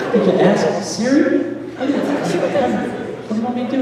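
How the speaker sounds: mock bewildered questioning; flustered questioning. Husband flailing with questions.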